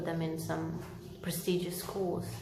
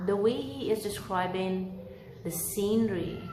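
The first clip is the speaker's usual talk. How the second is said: story narration. A narrator's reading. Reads Dickens chapter aloud.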